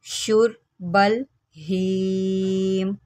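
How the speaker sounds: slow, drawn-out tajweed recitation; Quran recitation. Shown as a demonstration. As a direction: chant the verse slowly, held vowels. Recites the verse.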